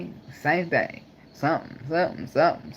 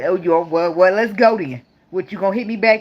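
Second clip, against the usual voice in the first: louder, daring challenge; mock confrontation; 2 semitones higher, 5 dB louder than usual. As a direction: square up to him, loud. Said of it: "I'm like".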